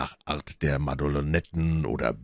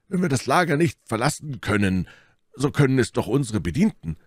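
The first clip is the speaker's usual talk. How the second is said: high, animated character voice; Porthos proposing; 8 semitones higher, 3 dB louder than usual. A narrator's reading. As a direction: reason it out in a raised voice.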